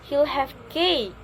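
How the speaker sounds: slow, with "cake" stretched; choice answer intonation. Shown as a demonstration. Teacher modelling the answer to a choice, slow stressed "cake". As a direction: take it slowly and land on "cake". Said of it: "like that".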